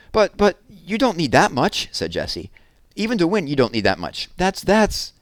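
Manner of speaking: high, sputtering protest; flustered disbelief. Acted. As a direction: stammer in disbelief. Jessie protests the thirty-two cans.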